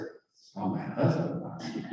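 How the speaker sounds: hushed, half-laughing realization; a breathy retold whisper of sudden fear; dawning fear. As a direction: let the dread creep in under a nervous laugh. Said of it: "that's when I got afraid".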